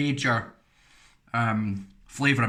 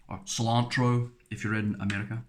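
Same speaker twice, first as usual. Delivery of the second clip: English accent; 2 semitones lower than usual. Shown as a demonstration. Vlogger saying the American word in an English accent. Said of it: "in an English accent".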